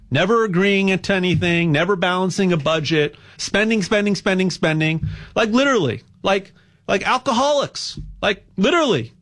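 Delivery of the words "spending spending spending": ordinary delivery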